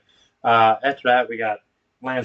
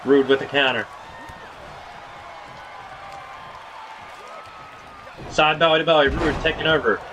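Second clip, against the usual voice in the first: punchy ringside commentary; wrestling play-by-play; 5 semitones higher than usual. Acted. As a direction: call each wrestling move as it lands. Calls wrestling match play-by-play.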